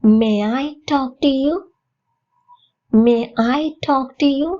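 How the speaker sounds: slow, polite request for permission. Shown as a demonstration. Learner asking to talk, polite and slow. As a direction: ask permission politely, slowly. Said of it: "பணிவாக அனுமதி".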